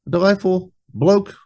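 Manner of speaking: light, high, approving reaction; delighted reaction. Retold or imitated. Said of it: "when he said it, I was like".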